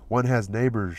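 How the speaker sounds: a touch of delicate hinting; hint it delicately; delicate suggestion. Acted. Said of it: "she suggested with delicacy".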